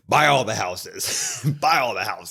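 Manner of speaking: slow, lightly voiced Roman Reigns boast; a hint of Ric Flair swagger; mock Ric Flair. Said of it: "turn into Ric Flair".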